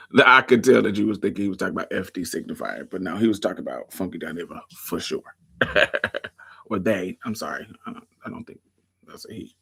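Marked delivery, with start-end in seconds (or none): 5.6-6.3 brief low-key laugh; short chuckle. Real, not acted. Livestream host amused by own remark, short chuckle. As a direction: let out a quick chuckle.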